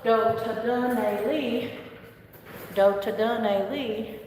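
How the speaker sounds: "Dohadane li" said slowly, dun drawn out; slow "Dohadane li", lingering on each syllable; slow model pronunciation. Shown as a demonstration. Teacher drilling "Dohadane li" slowly for learners. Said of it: "more elongated on that dun".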